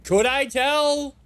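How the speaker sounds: suddenly doubt your own words; doubting himself. Real, not acted. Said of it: "but I could tell".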